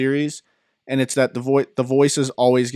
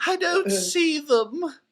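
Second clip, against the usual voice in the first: put-on cartoon baby voice, higher pitch; 3 dB quieter than usual. Answering office coworkers who ask for a voice: Stewie voice. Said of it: "do Stewie".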